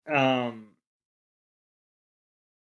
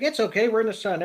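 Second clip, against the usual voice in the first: put-on higher, bubbly carefree baby voice; cheery Togepi; 8 semitones higher, 5 dB louder, faster than usual. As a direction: chirp it like a blissful little Togepi. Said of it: "Togepi's like".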